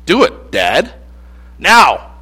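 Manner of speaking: bratty demanding son. Retold or imitated. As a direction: demand it like a spoiled kid. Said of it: "He sounds a little bratty too".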